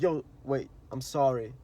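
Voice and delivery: soft, humble apology; sincere apology. Retold or imitated. Apologizing right away after a fight, softly and sincerely. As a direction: apologize gently and from the heart. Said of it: "Be like".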